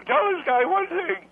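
put-on rough, cracked old-man indignation. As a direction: push on through a failing voice. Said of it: "It sounds rough".

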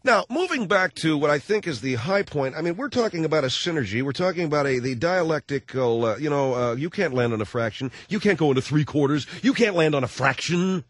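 lightly done rambling spaced-out hippie; Dennis Hopper. Retold or imitated. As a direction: drift through it like a burned-out philosopher. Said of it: "Dennis Hopper, Apocalypse Now".

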